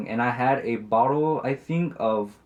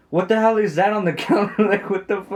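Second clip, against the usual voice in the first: higher, louder mock outburst; retold angry outburst; 9 semitones higher, 4 dB louder than usual. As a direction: act out an indignant demand in a raised voice. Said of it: "aggressively when she gets frustrated with her".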